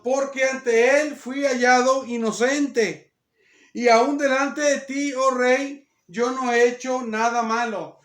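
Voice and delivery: slow, projected Bible reading; measured, emphatic verse reading; declaimed scripture. A narrator's reading. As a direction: proclaim each phrase, drawn out. Reads scripture aloud.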